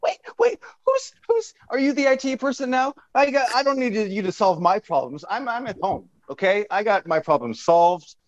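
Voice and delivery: high, exasperated rant; indignant rant. Acted. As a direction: push back hard and high, offended.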